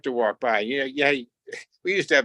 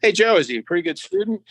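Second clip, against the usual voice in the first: Roy Campanella; 8 semitones higher, 3 dB louder, faster than usual. Retold or imitated. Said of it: "He said".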